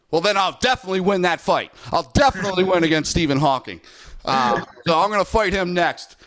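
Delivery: a hammed-up hint of a cocky Jake Paul bragging about his record; Jake Paul imitation. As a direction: play a swaggering trash-talking YouTuber, half joking. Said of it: "Terrible imitation, but fun to do".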